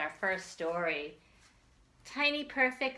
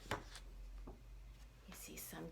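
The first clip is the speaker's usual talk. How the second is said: slow whispered words; 3 semitones lower, 19 dB quieter, much slower than usual. Real, not acted. Teacher whispers to the children while showing her garden. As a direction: draw it out in a hush.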